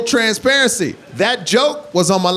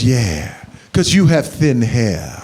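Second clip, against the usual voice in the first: mom's insult; 9 semitones lower, slower than usual. Retold or imitated. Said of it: "My mom goes".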